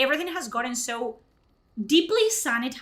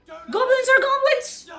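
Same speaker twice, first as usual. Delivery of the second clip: slow, much higher and louder, goblins are goblins spelled out; exasperated emphasis; 12 semitones higher, 5 dB louder than usual. Real, not acted. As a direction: lay it down as obvious fact. Ranting about goblin allegories.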